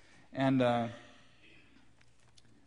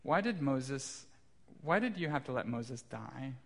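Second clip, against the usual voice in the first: put-on child's prayer. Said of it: "she said".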